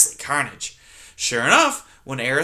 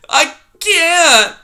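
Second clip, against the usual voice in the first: high, loud, desperate little mouse; high panicked mouse voice; desperate mouse cry; 10 dB louder than usual. Acted. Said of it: "Poppy cried".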